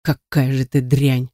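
understated disgusted snarl; contemptuous growl. Acted. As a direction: spit out the insult slowly. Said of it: "прорычал".

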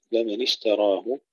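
لمن with a full kasra on the nun; clear kasra on nun. Shown as a demonstration. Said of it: "تحقيق الكسر في النون". (تحقيق كسر النون في لمن)

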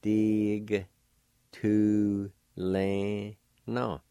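Dig, tu, le, na split apart, Dig joining the G to the D I; teacher demonstrating Dig tu le na; syllable by syllable. Shown as a demonstration. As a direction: sound out Dig tu le na, keeping the A silent. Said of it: "the G sound with the D I sound like this".

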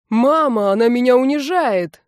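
loud, high hammed-up complaint; announced to the whole house. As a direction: broadcast the tattle so the whole house hears. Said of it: "сообщил он на весь дом".

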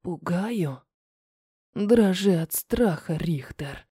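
low, soft, menacing male drawl; drawled through fake smile. A narrator's reading. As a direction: stretch the words out with a forced, mocking smile. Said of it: "Тянет сквозь лживую вымученную улыбку". (Руслан тянет с фальшивой улыбкой, низко и тихо)

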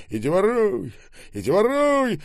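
high, loud repeated yell; shouting through a door. A narrator's reading. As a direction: holler it, pitch jumping up. Shouting while banging on a door. (громкий крик в запертую дверь)

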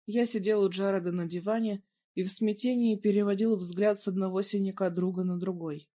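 usual speaking voice

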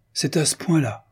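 « C'est à ce point-là » lancé plus haut, étonné; incrédule. A narrator's reading. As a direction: une surprise incrédule, à peine jouée. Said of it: "incrédule". (Christiane, incrédule, doute de la rumeur, ton étonné)

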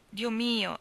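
a firmer repeat falling at the end; exclaiming. Acted. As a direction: push the second Dio mio out. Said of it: "esclamò Landry".

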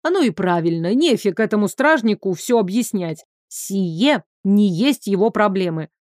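ordinary delivery, nothing marked

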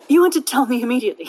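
rushed, short of breath. Real, not acted. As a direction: gasp it out, out of air. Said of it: "I didn't breathe in time".

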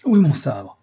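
high, loud offended ranting; a shrill spoiled dandy shouting. A narrator's reading. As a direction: bluster and yell down the hall. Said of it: "criait cette voix".

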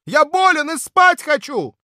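high, loud indignant protest; sick guest yelling at noisy neighbours, angry. Acted. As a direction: scold them through the wall. Guest yelling through wall.

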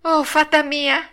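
high, drawn-out puppet wail; acted panicked cry. A narrator's reading. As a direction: call desperately for rescue. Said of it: "cominciò allora a strillare il burattino".

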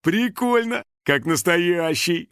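amused delight. A narrator's reading. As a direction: marvel with a chuckle in mind. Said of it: "хохотнул он".

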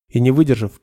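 ordinary delivery, nothing marked

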